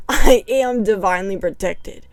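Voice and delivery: laughing through the affirmation; relieved laugh while speaking; nervous laugh. Real, not acted. Nervous relief after scary story, laughing affirmation. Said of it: "I am not just laughing".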